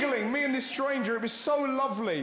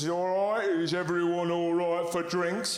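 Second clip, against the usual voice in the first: mock polite brother; 3 semitones lower, slower than usual. Brother trying to be normal.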